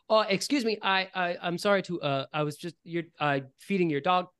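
put-on Cole the young ranger. Young ranger apologizes to a dog's owner, lightly voiced hesitant kid. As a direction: stammer an apology as a little kid. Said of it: "Cole the Ranger turns to you".

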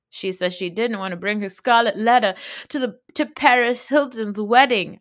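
a hint of a Southern white woman accent. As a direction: lightly play a prim Southern lady. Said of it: "she goes full Southern white woman".

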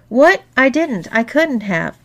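high, loud burst of disbelief, easing off; shocked denial. A narrator's reading. Man told what he did last night, shocked denial. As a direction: deny it in shock.

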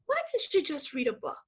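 hushed retold reproof; quiet boss. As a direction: suggest it softly, with polite disapproval. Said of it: "she said very quietly".

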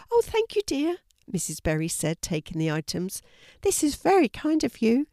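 lightly voiced kindly old neighbour; elderly lady voice. A narrator's reading. Missus Berry greeting Fiona at her gate, high old lady voice.

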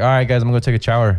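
put-on quick, casual Mexican-accented announcement; old Mexican accent. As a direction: toss it off fast in a Mexican accent. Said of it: "a little bit more of an accent".

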